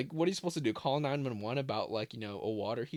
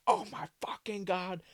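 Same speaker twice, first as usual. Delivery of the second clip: breathless whispered panic, voiced high; imitating mom gasping in horror under her breath; frantic whisper; 7 semitones higher than usual. Imitating frantic mom whispering to her son.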